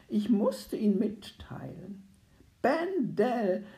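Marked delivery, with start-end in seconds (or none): 2.6-3.7 a master calling his servant, louder and higher. A narrator's reading. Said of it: "rief ich ihm zu".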